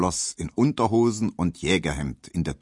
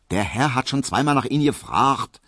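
higher-pitched female character voice; evasive maid; 6 semitones higher than usual. A narrator's reading. Maid reminding barber his customer waits, pointed. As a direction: deflect him with a pointed reminder.

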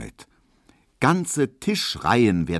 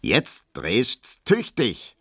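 calling out; 2 semitones higher, much slower than usual. Acted. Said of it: "ruft Hermann".

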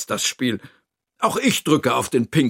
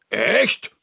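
rising, higher surprise; hopeful question; 7 semitones higher than usual. Acted. Narrator hears Toni may play again, surprised question. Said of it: "frage ich".

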